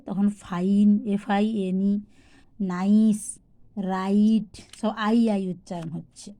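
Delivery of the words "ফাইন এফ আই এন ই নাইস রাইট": ফাইন, নাইস, রাইট with a full "eye". Shown as a demonstration. Teacher giving examples of I, "eye" in ফাইন, নাইস, রাইট. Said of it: "আই এর উচ্চারণ যখন আই হয়".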